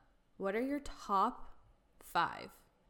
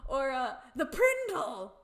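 slow, loud, higher cry of the name; gleeful callback; 3 semitones higher, 4 dB louder, slower than usual. Real, not acted. Fan shouting a favorite episode name to her friend.

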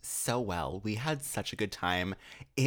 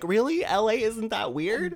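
high, loud disbelief; incredulous; 10 semitones higher, 6 dB louder than usual. Retold or imitated. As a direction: act shocked at the crowd. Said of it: "And I was just like".

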